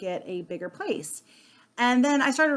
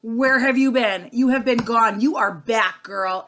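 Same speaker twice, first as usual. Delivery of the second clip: louder, delighted welcome; friend's excited party greeting, louder; 5 dB louder, slower than usual. Retold or imitated. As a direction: imitate a friend thrilled to see you at a party. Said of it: "she goes".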